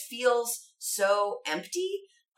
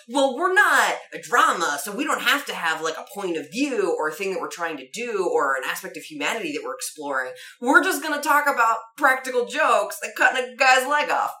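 mock dismissive show voice; 6 dB louder than usual. Mocking the show's attitude in character.

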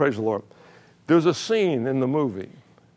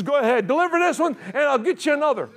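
much higher, giggling through the quote; laughing God's voice; 12 semitones higher than usual. Real, not acted. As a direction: quote God while still laughing. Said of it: "He says".

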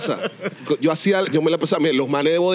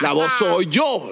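boastful claim; much slower than usual. Retold or imitated. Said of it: "el man dijo".

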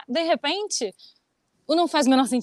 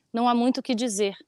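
whisper. Acted. Whispered line within poem.

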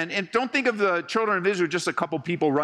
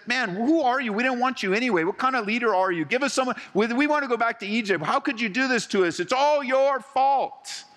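mock complaining; 5 semitones higher than usual. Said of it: "It's almost like they said".

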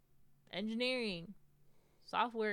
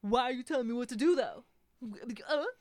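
defiant retort; 3 semitones higher, 7 dB louder than usual. Retold or imitated. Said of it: "It's like".

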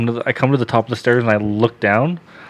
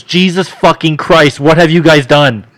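louder, slow, appalled outburst; shocked swearing; 5 semitones higher, 6 dB louder than usual. Retold or imitated. Cousin who never swears, shocked at the birth, loud. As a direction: blurt it out in horror, a bit higher. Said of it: "And he goes".

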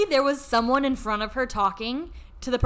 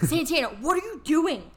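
mildly exasperated scolding, a little higher; retold mad demand, pitched up; 4 semitones higher than usual. Mad friend confronting Santana in the lobby, exasperated. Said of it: "I was mad at this point".

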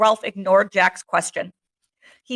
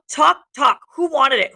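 shouting; 5 semitones higher, 5 dB louder than usual. Acted. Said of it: "shouted Ralph".

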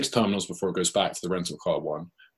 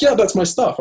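much higher and louder imitated woman; lady's voice; 12 semitones higher, 8 dB louder than usual. The lady claims the stuff as hers, pitched way up. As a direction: pitch way up for the stranger.

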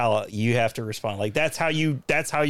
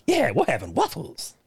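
Shrek voice; 3 semitones higher than usual. Retold or imitated. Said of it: "Is that Shrek?".

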